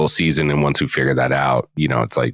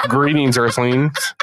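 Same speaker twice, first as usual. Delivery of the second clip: slow, high robotic alien greeting; old speech synthesizer; 7 semitones higher, slower than usual. Pretend. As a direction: drag it out like a sci-fi robot. Repeats alien greeting, slower.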